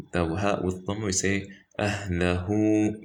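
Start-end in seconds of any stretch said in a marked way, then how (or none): 1.8-3.0 "أهله" with a long held hoo; stretched ending. Shown as a demonstration. Teacher showing the ha with dhamma, stretched ending. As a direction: hold the final u of "أهله". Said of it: "we stretch it".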